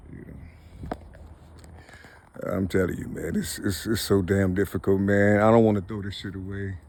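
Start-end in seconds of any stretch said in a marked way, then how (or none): 2.4-6.8 low, tearful insistence; emotional, real. Real, not acted. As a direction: plead it from a low, choked-up place. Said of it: "I'm getting emotional like a motherfucker".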